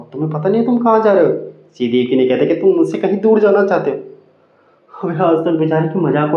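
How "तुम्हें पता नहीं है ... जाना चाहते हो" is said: raised-pitch imitation of a wife; lightly voiced accusing wife; mock nagging wife. Wife accusing Columbus of leaving, mock nagging. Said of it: "बीवी ने ना उसकी लेनी कर दी".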